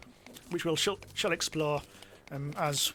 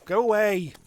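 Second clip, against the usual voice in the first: shooing yell; 5 semitones higher, 6 dB louder, slower than usual. Real, not acted. Shouting at the ghost.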